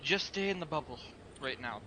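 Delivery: calm, softening toward the end; steady reassurance with a touch of breathlessness; calm, slightly breathless. Acted. Tired monk tells the party to stay put, calm and slightly winded. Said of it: "calmly say, breathlessly slightly".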